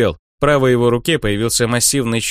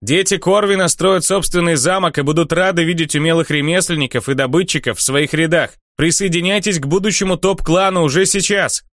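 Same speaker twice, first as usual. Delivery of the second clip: herald's call; 7 semitones higher than usual. Acted. Herald shouting clan recruitment.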